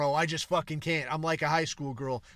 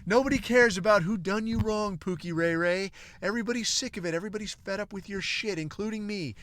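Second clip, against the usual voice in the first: mock scolding woman; 5 semitones higher, faster than usual. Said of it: "She's like".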